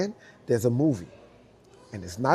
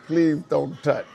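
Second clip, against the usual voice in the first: laughing plea; 2 semitones higher, 6 dB louder, slower than usual. Retold or imitated. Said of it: "I literally said".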